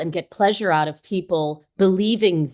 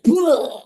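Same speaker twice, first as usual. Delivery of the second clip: imitated bleh noise; 6 semitones higher than usual. Host imitates Kira flung back by the news, bleh noise. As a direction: mimic being knocked back with a noise. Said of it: "Kira was like".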